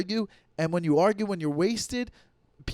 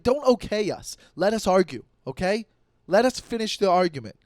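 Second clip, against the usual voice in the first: mock-indignant retort, a bit raised; imitated indignant arguing; 4 semitones higher, 4 dB louder than usual. Son telling mom to let him and dad argue, mock indignant. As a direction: push back as if mid-argument. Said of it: "me and my dad will argue".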